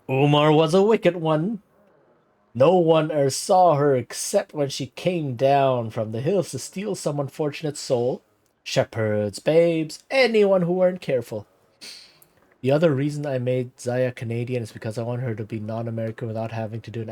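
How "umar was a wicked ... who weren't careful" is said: lightly voiced old villager, higher pitch, vaguely Irish; put-on Irish-ish accent. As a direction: spin the legend in a wobbly Irish lilt. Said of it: "something weird to Irish".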